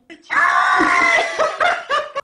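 cracking up at his own joke; real howl of laughter; shrieking laugh. Real, not acted.

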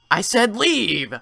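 slow firm order; stern command. Acted. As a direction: order him out, hard. Nurse orders him out.

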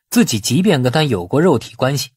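ordinary delivery

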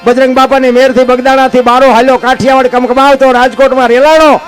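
folk poem recital. Acted. Storyteller reciting Bhikhabhai's earthquake verses to the crowd, rhythmic chant. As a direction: recite the earthquake poem like a bard in full flow. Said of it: "એની બાપુ યાદી કરાવું તમને".

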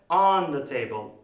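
"On" with a vowel between "o" and "a"; open O. Shown as a demonstration. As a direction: say "On the table" with an open "ahn". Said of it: "O ve A arasındadır".

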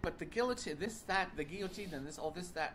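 imagined alarm. Retold or imitated. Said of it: "then you think".

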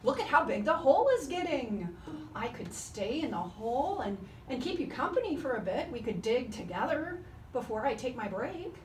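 frustrated plea. Acted. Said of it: "Kangaroo called out to Koala".

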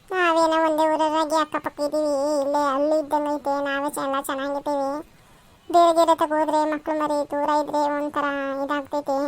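lightly altered village friend voice; chatty neighbour. Acted. Neighbour talking about children living nearby, lightly voiced friend. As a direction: muse aloud as the friendly neighbour.

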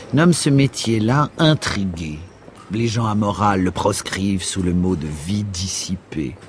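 animated speech with swooping emphasis; lightly voiced Rastignac, cynical and breezy. Rastignac advising his friend Raphaël, breezy cynicism. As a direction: lightly play a cocky schemer selling his method.

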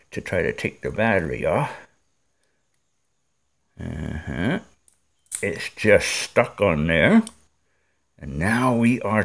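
talking around an object in mouth; mouth full. Real, not acted. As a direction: speak with something held between teeth. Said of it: "I'm gonna put it back in my mouth, so I can't talk as easily now".

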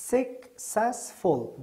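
successful broken slowly into suc, cess, ful; teacher splitting "Successful" with clear gaps between syllables. Shown as a demonstration. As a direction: say "Successful" in three separate, drawn-out syllables. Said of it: "در اینجا اول بر شما تقسیم کرده".

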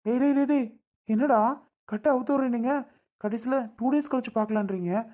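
high-pitched objection to being left behind; alarmed protest. Acted. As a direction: call them back, protesting. Tied man protests being left.

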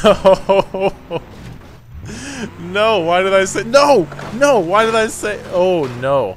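loud high laughing panic; panicked yelling. Real, not acted. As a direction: shout it half laughing in dismay. Panic after crashing in game.

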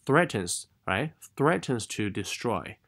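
"threatens" slowly, with a clear th; tongue tip between the teeth to open "threatens"; slow model th in "threatens". Shown as a demonstration. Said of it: "舌尖放在牙齿之间".

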